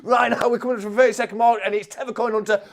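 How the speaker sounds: high, urgent play-by-play building to shouts; excited race commentary. Real, not acted. Commentator urging Cobra on toward the finish, frantic race commentary. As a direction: drive the commentary up into frantic cheering.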